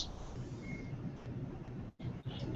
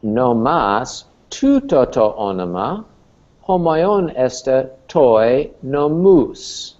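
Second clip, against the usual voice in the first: reading Greek aloud; slower than usual. Shown as a demonstration. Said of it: "here's our note".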